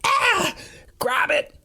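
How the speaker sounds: put-on frantic high Norwegian-accented yelp; high-pitched genuine fear. A narrator's reading. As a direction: squeal the order in terror. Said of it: "high-pitched Norwegian accent has the sound of genuine fear".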